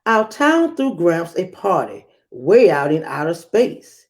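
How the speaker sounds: put-on lively read-aloud for children; storybook reading voice; story narration. A narrator's reading. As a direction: read it like a picture book to a class.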